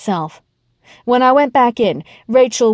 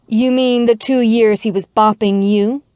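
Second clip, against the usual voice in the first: mock pleasant; 2 semitones higher than usual. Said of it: "I asked pleasantly".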